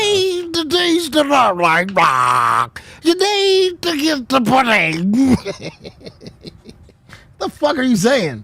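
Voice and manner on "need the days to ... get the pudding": slow, slurred mock voice as if with marbles in the mouth; mumbled mock voice. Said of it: "I'm just trying to make you laugh".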